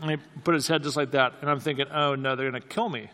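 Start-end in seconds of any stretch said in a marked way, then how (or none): 1.9-3.1 half-laughed mock panic, softer; laughing panic. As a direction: laugh through the mock fear.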